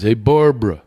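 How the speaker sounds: lightly voiced dad calling out; a hint of dad hailing mom; imitated father. Absent father hailing the mother, lightly imitated. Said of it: "I do a great imitation of him".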